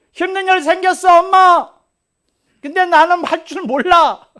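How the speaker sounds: 훨씬 높고 크게 칭얼대는 아이 목소리; 엄마에게 매달리듯 울먹이며. Retold or imitated. (엄마를 부르며 칭얼대는 아이 말투)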